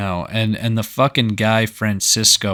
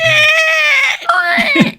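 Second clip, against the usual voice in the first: piercing high screeched noise; 4 dB louder than usual. Acted. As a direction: let out a long, high mock screech. Imitating Godzilla after a bang.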